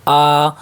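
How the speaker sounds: آ held long and slow like alif madda; stretched vowel. Shown as a demonstration. Teacher showing pupils the long آ, slowly stretched. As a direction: pull آ out long. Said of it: "کھڑا زبر برابر ہے الف مدہ کے".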